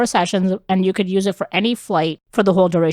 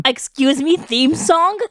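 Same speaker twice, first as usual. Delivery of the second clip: mock surprise; 6 semitones higher, slower than usual. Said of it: "I'm like".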